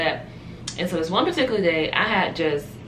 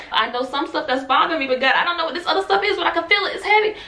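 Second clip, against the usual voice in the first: anguished prayer; 11 semitones higher, 4 dB louder, faster than usual. Retold or imitated. Pouring out her burden in prayer.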